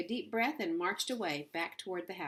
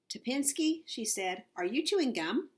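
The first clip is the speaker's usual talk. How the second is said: accusing; 6 semitones higher, 4 dB louder than usual. A narrator's reading. Coach confronting gum chewer.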